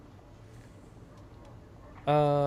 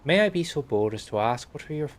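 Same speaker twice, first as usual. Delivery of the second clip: attempted Welsh accent; 3 dB louder than usual. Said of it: "I've turned Irish".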